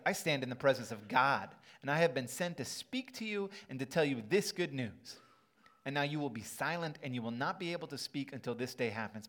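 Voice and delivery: loud, booming angel proclamation; powerful angel voice. Pretend. Preacher voicing Gabriel's rebuke to Zechariah, loud and booming. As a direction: speak as Gabriel before God, commanding. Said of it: "I think it sounds very powerful".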